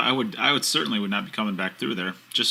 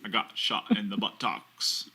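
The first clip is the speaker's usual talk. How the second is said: Forrest Gump impression; 3 semitones lower, 5 dB quieter than usual. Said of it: "You actually do that much better".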